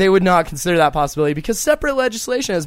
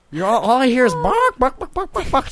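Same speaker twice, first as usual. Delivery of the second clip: mocking rant; 6 semitones higher than usual. Mock rant at hecklers.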